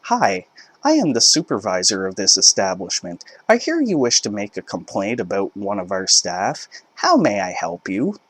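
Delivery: retail voice. Retold or imitated. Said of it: "in my best retail voice I said".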